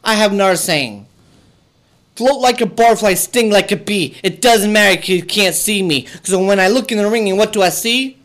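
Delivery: boastful wrestler catchphrase delivery; wrestling promo. Acted. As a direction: hype yourself like a champion on the mic. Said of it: "I'm gonna cut a promo".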